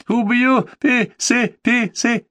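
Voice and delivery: high, strained hissing threat; hissed threat. Acted. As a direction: spit it out as a hissing madman. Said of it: "прошипел Сурен".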